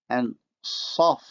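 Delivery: Saf with emphatic s and backed vowel; Arabic emphasis demo. Shown as a demonstration. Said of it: "look at the examples".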